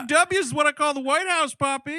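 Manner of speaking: high, breathy Texan son voice; George W. Bush voice. Retold or imitated. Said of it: "Hey, Poppy".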